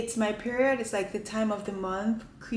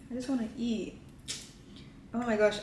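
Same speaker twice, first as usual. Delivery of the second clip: ordinary talk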